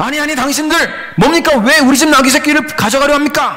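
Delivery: high, alarmed, flustered, urgent voice. Dramatizing the donkey owner's reaction in a Bible scene, alarmed, flustered, urgent voice. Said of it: "경계하고 황당해하며 다급한 목소리로".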